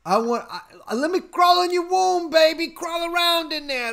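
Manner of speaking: loud, high mock Brooklyn sweet-talker; Brooklyn accent. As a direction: push a hammed-up Brooklyn come-on high and loud. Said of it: "Uh, Brooklyn accent".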